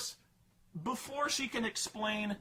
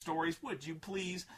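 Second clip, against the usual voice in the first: patronizing dad. Retold or imitated. Dad brushing off daughter's ghost stories, mock patronizing. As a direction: shoo her off to bed. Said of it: "he's like".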